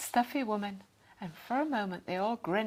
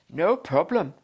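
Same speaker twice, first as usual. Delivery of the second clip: casual; 5 semitones lower, 8 dB louder than usual. A narrator's reading. Dad reassures calmly.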